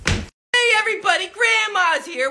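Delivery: lightly voiced grandma calling out. Grandma greets the family, lightly voiced grandma. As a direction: sing out a grandma entrance.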